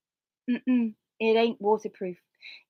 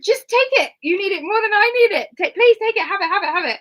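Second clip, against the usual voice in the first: insistent urging; 11 semitones higher, 7 dB louder than usual. Retold or imitated. Urging him to take the mat.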